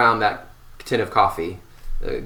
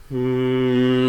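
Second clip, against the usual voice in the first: steady hum. Shown as a demonstration. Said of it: "Going the other way".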